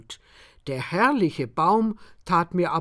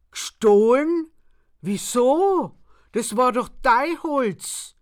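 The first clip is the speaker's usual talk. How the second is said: high, louder disbelief; shocked protest; 7 semitones higher, 6 dB louder than usual. A narrator's reading. Narrator protests to the farmer in high, shocked disbelief. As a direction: protest your innocence in shock.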